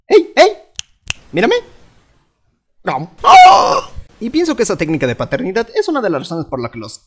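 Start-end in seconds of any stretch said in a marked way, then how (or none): 0.1-3.1 high, loud call for attention; mom calling out. Retold or imitated. Mom catches misbehaving kids, high loud call. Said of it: "ella diría". 3.2-3.9 very high, loud wail of despair; anguished kid scream. Acted. Kid watches mom eat his candy, shrieking.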